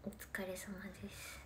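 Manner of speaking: very soft slow whisper; a slow whispered goodbye to viewers; whispered thanks. Real, not acted. Whispered sign-off.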